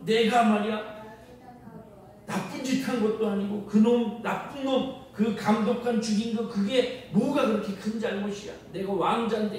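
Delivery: a touch of wounded royal anger; indignant Moses. Retold or imitated. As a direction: protest your innocence as a prince. Moses voiced angry.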